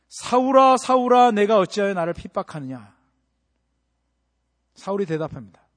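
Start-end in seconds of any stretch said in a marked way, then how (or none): 0.1-2.9 loud high call from heaven. Acted. Jesus calling Saul on the road, loud. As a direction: cry out the name twice, loud and high. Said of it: "예수님께서 사울을 부르십니다".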